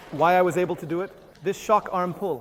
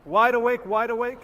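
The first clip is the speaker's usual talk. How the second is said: scream; 2 semitones higher than usual. Shown as a demonstration. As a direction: yell them awake. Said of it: "Sometimes I scream".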